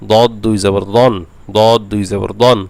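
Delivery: thick, emphatic Arabic d in দদ and দন; heavy Dad. Shown as a demonstration. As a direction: spell out দদ দুই জবর দন with full, heavy d sounds. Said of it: "দদ মোটা করতে হবে".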